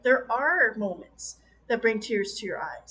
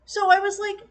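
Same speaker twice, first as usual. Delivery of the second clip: laughing; 8 semitones higher, 4 dB louder than usual. Real, not acted. Laughing at the film.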